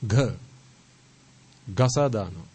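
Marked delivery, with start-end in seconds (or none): 0.0-0.3 "Gha" as one aspirated syllable; isolated "Gha". Shown as a demonstration. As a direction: breathe out firmly on "Gha". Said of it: "Sangha is to eradicate".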